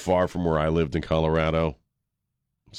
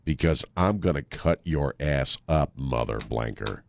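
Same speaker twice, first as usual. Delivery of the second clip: tough woman quote; slower than usual. Retold or imitated. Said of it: "And Pam Grier says".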